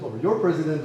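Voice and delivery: ordinary delivery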